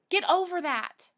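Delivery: ordinary talk, nothing marked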